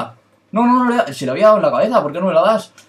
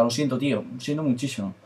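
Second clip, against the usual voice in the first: mock apology; 8 dB quieter than usual. Que no lo siento.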